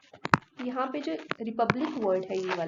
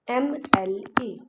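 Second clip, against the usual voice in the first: slow spelling out; 4 dB louder, much slower than usual. Shown as a demonstration. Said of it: "एक शब्द है आपका".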